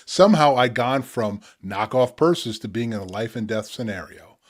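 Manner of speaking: measured poetic reading with pauses; spoken word poetry. Acted. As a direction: read the poem with weight, unhurried. Reads his poem The Back Rooms.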